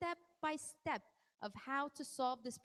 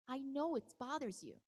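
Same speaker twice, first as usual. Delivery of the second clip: calm voice. Shown as a demonstration. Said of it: "In a calm voice".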